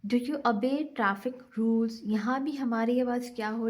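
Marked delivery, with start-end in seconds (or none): 0.1-1.9 slow question ending on a rising "rules". Shown as a demonstration. Teacher reading an example question to students, slow and rising. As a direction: ask it slowly and lift the voice on "rules". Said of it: "ऊपर चढ़ रही है".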